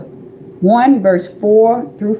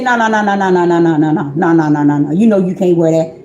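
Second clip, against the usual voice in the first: low run of no's, sinking lower; stern refusal; 6 semitones lower, faster than usual. Retold or imitated. The Father stops her wearing that dress, low firm refusal.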